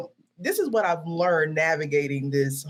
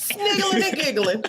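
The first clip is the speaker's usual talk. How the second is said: high-pitched, drawn-out tease; slow sing-out in a high voice; playful teasing; 12 semitones higher, slower than usual. Pretend. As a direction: stretch it out high and silly. Playfully naming co-host's laugh.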